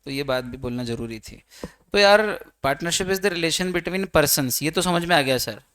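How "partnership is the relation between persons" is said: slow, word by word dictation. Shown as a demonstration. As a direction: dictate each word slowly for notes. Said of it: "teacher dictating definition slowly". (धीरे-धीरे लिखवाते हुए)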